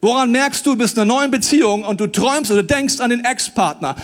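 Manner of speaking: ordinary talk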